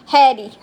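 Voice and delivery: put-on "Hattie" said the way a small kid says Harry; laughing repeat of the childhood "Hattie"; little-kid "Hattie" for uncle Harry; childish mispronunciation. Shown as a demonstration. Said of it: "I'd call him Hattie".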